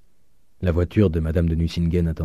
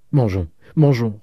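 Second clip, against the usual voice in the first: plus fort, ivre de bonheur; il ne sait plus ce qu'il dit; griserie de joie; 4 semitones higher, 5 dB louder than usual. A narrator's reading. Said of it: "en ne sachant plus ce qu'il disait". (joie égarée, plus forte)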